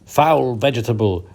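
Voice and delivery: a touch of a hissing cat; mild hiss. Acted. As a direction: spit it at the cucumber lightly. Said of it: "Whiskerby hissed".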